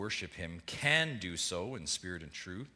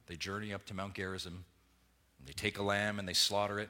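normal talking voice

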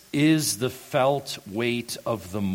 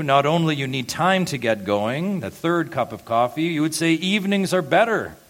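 higher, louder whiny grumbler rising to a squeal; mock complaint; 7 semitones higher, 5 dB louder than usual. Pastor teasing the late risers in the pews, mock whiny grumble. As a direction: playfully imitate the non-morning person.

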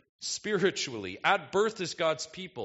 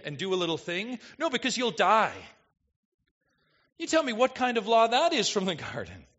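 ordinary talk, nothing marked

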